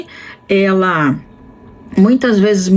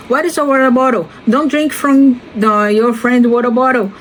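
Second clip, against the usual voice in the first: put-on preschool teacher to kids; 4 semitones higher than usual. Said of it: "a gente fica o tempo todo falando".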